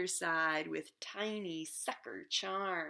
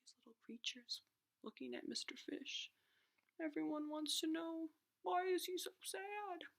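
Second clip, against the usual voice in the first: quick hushed aside; much softer, fast storytelling whisper; suspense whisper; 7 semitones higher, 6 dB quieter, faster than usual. A narrator's reading. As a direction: whisper fast to the little ones.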